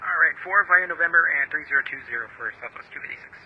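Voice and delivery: tinny radio transmission; crackly cockpit radio call; pilot over the radio. Real, not acted. Pilot readback heard over radio.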